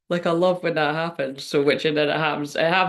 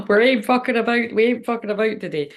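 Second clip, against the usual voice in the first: excited; 5 semitones higher, 3 dB louder than usual. Real, not acted. Laughing, hyped after a card.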